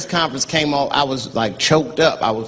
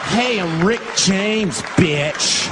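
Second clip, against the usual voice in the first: Impression of a singer; 6 semitones higher, much slower than usual. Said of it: "Everybody at the park".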